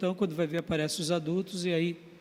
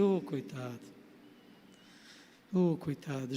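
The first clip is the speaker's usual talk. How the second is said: tender pity; 5 semitones lower, 7 dB quieter than usual. Retold or imitated. Pitying the crying boy.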